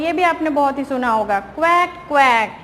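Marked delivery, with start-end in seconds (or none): 1.4-2.6 demonstrating a duck's quack; duck quack imitation. Shown as a demonstration. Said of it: "उसका sound कैसा होता है".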